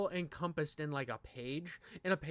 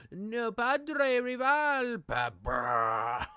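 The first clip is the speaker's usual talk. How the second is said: epic battle shout; 6 semitones higher, 8 dB louder, much slower than usual. Pretend. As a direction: bellow it like a battle anthem climax. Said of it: "the music in this makes me sound like I'm gonna fucking fight this manga".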